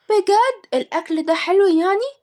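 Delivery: put-on high, drawn-out child voice; slow, squeaky curiosity; doubting little girl. A narrator's reading. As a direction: ask slowly like an intrigued child. Child asks about the food.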